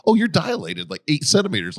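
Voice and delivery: high-pitched mock nurse voice; imitated nurse. Voices the nurse announcing dilation.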